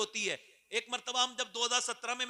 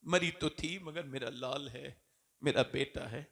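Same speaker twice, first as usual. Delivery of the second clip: tender mother; 6 semitones lower, slower than usual. Acted.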